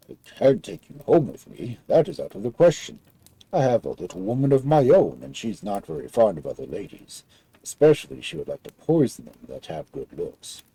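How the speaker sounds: lightly voiced big giant. Giant talks of his wife.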